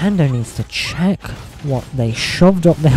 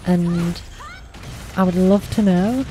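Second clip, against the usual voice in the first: trying out a higher voice, held a little high; testing her higher register; practised higher voice; 3 semitones higher than usual. Shown as a demonstration. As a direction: lift the voice for voice training. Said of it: "I need to work on voice training".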